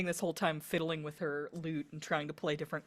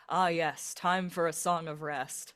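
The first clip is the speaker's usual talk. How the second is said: loud, pleased bard; bard's eager announcement; 5 dB louder than usual. Acted. Bard announcing song time to the party, eager. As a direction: announce it loudly to the room. Player voices her bard's reaction.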